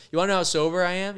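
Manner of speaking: cocky challenge. Retold or imitated. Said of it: "He goes".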